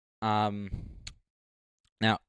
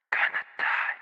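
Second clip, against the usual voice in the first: radio effect voice; 7 dB quieter than usual. Shown as a demonstration. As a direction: imitate a bit-crushed radio vocal. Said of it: "Let me try to do vocal chain".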